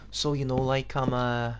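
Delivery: put-on shaky go at a Liverpool accent; terrible Scouse attempt. Having a go at a Liverpool dude, poor Scouse accent. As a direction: try a bad Scouse accent. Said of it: "no, that was terrible".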